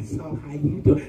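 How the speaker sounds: soft, crooning come-on; lightly voiced ladies' man; mock smooth pickup line. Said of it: "Jesus don't talk like that".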